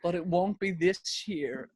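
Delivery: high, slow mock-solemn twist; Louis Walsh. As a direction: draw out the let-down in a put-on voice. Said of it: "And Louis goes".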